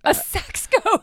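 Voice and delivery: slow, high disbelieving question; incredulous. Real, not acted. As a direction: drag it out in disbelief. Incredulous repeat.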